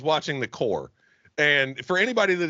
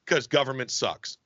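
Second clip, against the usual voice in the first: deadpan subtitle read; slower than usual. Pretend. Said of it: "Monty Python style subtitles".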